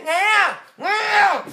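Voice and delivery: high, stretched-out mocking cry; hammed-up high yelp; mock wail. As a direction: draw each "nghe" out high. Mimics the wailing agreement.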